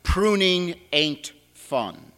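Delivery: slow Texas drawl on "Pruning ain't fun"; lightly voiced Texas accent, slow and wry. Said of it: "said with a Texas accent".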